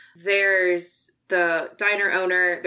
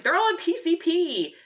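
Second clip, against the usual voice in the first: mock panic; 11 semitones higher than usual. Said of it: "being like".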